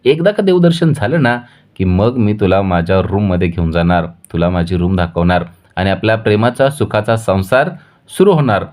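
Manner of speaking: bubbling over with plans for their life together; happy. Acted. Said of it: "आनंदाने ऊर्जाला म्हणतोय".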